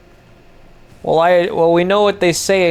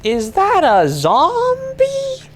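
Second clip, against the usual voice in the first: much higher, slow startled question; surprised; 13 semitones higher, slower than usual. Real, not acted. Gamer spotting a zombie on screen, startled. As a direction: gasp out the sighting.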